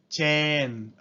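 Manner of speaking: chain as chen, long e, no glide; Japanese loanword. Shown as a demonstration. Teacher demonstrating the Japanese reading for class: チェーン. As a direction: give chain the Japanese vowel. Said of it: "se convierte en".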